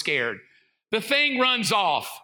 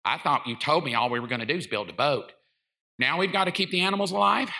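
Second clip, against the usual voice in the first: ticked-off wife; 7 semitones lower, faster than usual. Retold or imitated. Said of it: "his wife is ticked".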